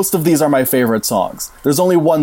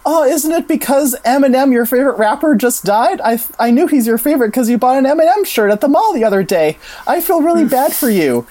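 Brooke; 10 semitones higher than usual. Retold or imitated. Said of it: "And she's like".

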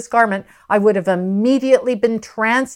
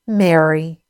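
tag; 4 semitones lower than usual. Acted. Jesus calls Mary by name.

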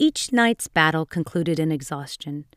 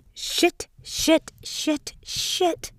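screamed; 11 semitones higher, much slower than usual. A narrator's reading. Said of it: "Jack screamed".

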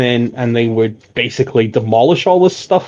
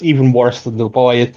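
ordinary talk, nothing marked

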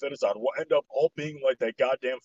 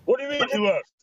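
surprised; 10 semitones higher, 4 dB louder than usual. Real, not acted. Hears the editor left.

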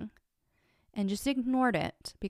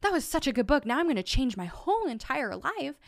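mock gushing reader; 4 semitones higher than usual. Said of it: "I don't go".

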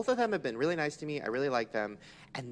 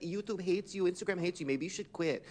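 higher-pitched imitation of a friend nudging; lightly mock a meddling girlfriend's advice; gossipy retold voice, pitched up; Lele; 4 semitones higher than usual. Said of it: "Lele would be like".

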